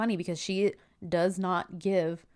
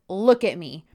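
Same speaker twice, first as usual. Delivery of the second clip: put-on scolding like children; 9 dB louder than usual. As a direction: order them away like naughty kids. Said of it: "she's treating them like they're children".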